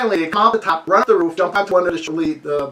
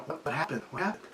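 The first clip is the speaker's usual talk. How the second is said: hushed wondering; 4 semitones lower, 15 dB quieter than usual. Retold or imitated. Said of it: "we're looking at each other going".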